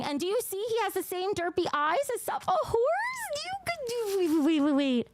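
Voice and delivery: high-pitched gushing, rising into a squeal; excited squeal. Real, not acted. Streamer gushes over derpy eyes, excited squeal. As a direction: squeal over something too cute.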